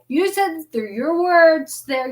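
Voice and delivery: retold pleading with growing insistence; insistent plea. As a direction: press God on a promise, voice lifted. Insisting to God in retold prayer.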